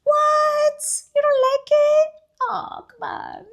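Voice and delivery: high, loud, playful incredulous protest; mock disbelief. Speaker teasing someone who dislikes it, mock disbelief. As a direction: act scandalised, loud and drawn out at the end.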